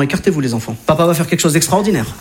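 low, grand hero voice; the dad showing off to his kids, low and grand; deep solemn boast. Retold or imitated. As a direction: announce it like a superhero. Dad boasting before punch.

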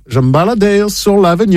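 French sung with an American accent; hammed-up American accent. Shown as a demonstration. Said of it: "avec l'accent américain". (accent américain)

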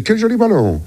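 high, giggly mock wonder; amused mock praise while blowing into it; mock delight. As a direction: coo over the balloon as if charmed. Drunk driver mocking the breathalyser.

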